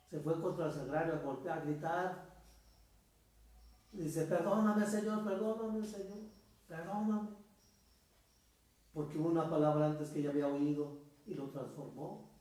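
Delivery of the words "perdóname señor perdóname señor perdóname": high, pleading cry for forgiveness; a high, imploring plea for mercy; tearful pleading. Retold or imitated. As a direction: beg forgiveness as if weeping. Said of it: "aquel hombre lloraba, gritaba, bramaba, imploraba".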